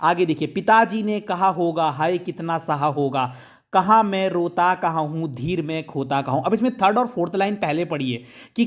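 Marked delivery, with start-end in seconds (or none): 0.5-6.4 poem recitation. Shown as a demonstration. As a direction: read the lines gently, one at a time. Teacher recites poem stanza.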